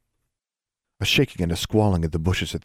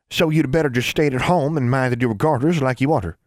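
put-on high old granny calling out a child's full name; a scolding great-grandmother, pitched up high; stern old granny; 7 semitones higher, 4 dB louder than usual. A narrator's reading. Great-grandmother catching the snooping girl, high stern granny voice.

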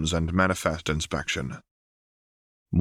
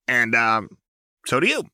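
higher, evasive and fidgety; nervous Jinx; 5 semitones higher, 3 dB louder than usual. A narrator's reading. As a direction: dodge the question brightly.

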